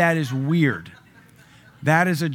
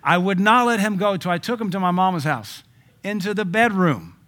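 high, loud mock reading; mocking high reread; 6 semitones higher, 6 dB louder than usual. Shown as a demonstration. Preacher rereads the verse in a mock high voice. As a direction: read it high and loud, poking fun. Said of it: "How else do you read that?".

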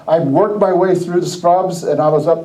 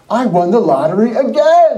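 higher-pitched imitation of gleeful news; excited announcement; 4 semitones higher than usual. Coworker telling of his second win, excited. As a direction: announce it like a repeat winner, retold.

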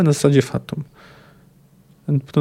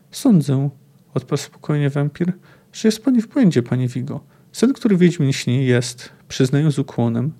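expressive book reading, voicing the dialogue; reading a novel aloud. Lecturer reading a Sapkowski quote to listeners, in storyteller narration. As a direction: read the passage like a storyteller.

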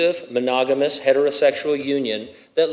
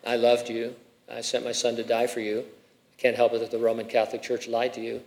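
imagined voice of God; 2 semitones lower, 6 dB quieter, faster than usual. Pretend. Imagines the Lord at judgment.

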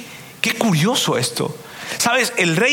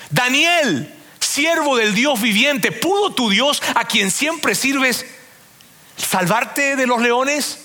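retold shout; 5 semitones higher, much slower than usual. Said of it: "gritó".

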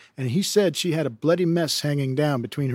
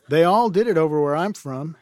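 laughing while reading; 2 semitones higher, 3 dB louder than usual. Real, not acted. Reader laughs at line.

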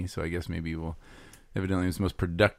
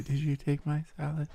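mock enraged scream; 7 semitones higher, 4 dB quieter than usual. Co-host imitates colleague enraged over stolen lunch, mock screaming. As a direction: imitate someone screaming down a hallway, held back. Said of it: "that was me screaming through the office hallways".

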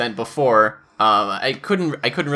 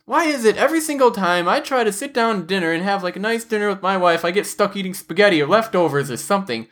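higher-pitched griping husband; put-on exasperated complaint; mock complaining; 4 semitones higher than usual. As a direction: imitate a fed-up husband venting. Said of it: "he's complaining to".

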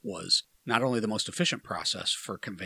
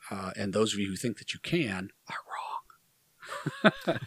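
whisper yelling. Real, not acted. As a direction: whisper it like a yell. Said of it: "Why, why, why are we whispering?".

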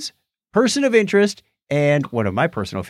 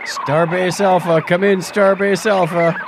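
sci fi communicator; 6 semitones higher than usual. Acted. Sound effect, hailing a starbase.

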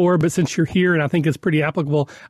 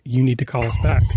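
lower, gloomy imitation of the nurse; sounding down; 5 semitones lower than usual. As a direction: mimic a downbeat nurse on the phone. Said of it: "sounded very down".

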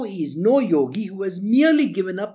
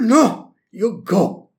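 loud, curt command; firm mock order; 6 dB louder, much slower than usual. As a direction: send him off with authority. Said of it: "But I was told".

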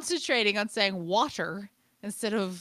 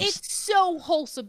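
higher-pitched fond gush; 8 semitones higher than usual. Real, not acted. Agreeing with cohost on British shows, gushing. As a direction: gush over how lovely it is.

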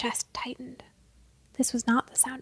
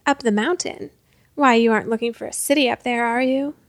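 mocking leader; 5 dB louder than usual. Leader teasing the boy.

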